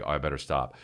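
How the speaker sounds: low, quiet climb-down; chastened child. Retold or imitated. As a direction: imitate a kid backing off, muttered low. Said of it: "he was like".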